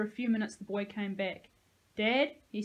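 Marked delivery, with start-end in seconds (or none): 1.9-2.4 loud, lost call. A narrator's reading. Boy calling for dead father.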